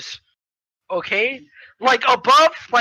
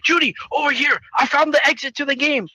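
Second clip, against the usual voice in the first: higher-pitched urgent calling voice; grandpa's call; 5 semitones higher than usual. Retold or imitated. Grandpa has found the exit, urgent higher call. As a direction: call him over as an eager Grandpa. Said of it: "then grandpa's like".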